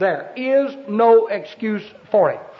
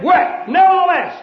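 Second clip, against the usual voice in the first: defiant people; 3 semitones higher than usual. Acted. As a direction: throw it back like stubborn rebels. People defy God's command.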